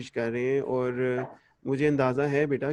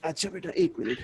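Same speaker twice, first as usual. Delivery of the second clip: bad connection; 3 semitones higher than usual. Real, not acted. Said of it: "आपकी आवाज़ नहीं आ रही बिल्कुल".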